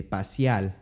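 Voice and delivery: paseal with final l; Puerto Rican l. Shown as a demonstration. Teacher imitating Puerto Rican speech. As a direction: end pasear with an l. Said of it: "they would say".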